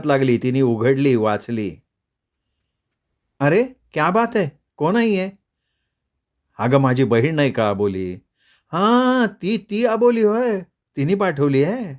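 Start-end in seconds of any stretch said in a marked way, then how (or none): 3.4-11.9 Radha's voice, pitched up and playful; playful wife-to-be, high; teasing high girl's voice. Acted. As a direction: tease him in a bright girlish tone.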